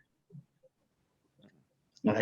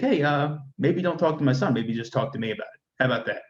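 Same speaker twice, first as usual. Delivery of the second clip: wife's sharp mock retort, a touch higher; lightly voiced tough New Yorker warning her off; New York attitude; 4 semitones higher than usual. Wife tells the Southern lady to back off, with a hint of New York attitude. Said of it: "that New York attitude".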